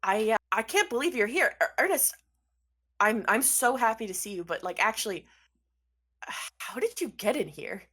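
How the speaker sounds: loud, stammering disbelief; acted astonishment at a reunion; shocked. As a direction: stumble over the words in happy shock. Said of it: "Dandy's shocked".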